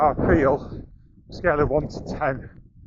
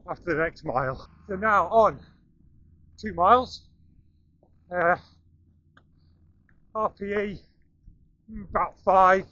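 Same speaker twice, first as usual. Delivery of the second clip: talking mid-run, short breaths; speaking while jogging along; while running. Real, not acted. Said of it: "We're running up the coast".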